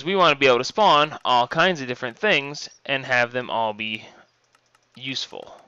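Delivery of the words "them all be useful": talking while chewing gum; words round a wad of gum. Real, not acted. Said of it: "I'm trying to talk and chew gum".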